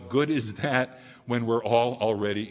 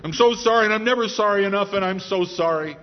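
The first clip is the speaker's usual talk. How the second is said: repeated apology building to louder, higher pleading, then easing; a frantic man pleading guilty in court, apologizing over and over; desperate apology; 4 semitones higher, 3 dB louder, faster than usual. Acted. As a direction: beg forgiveness, rising in panic. Martin pleading before the judge.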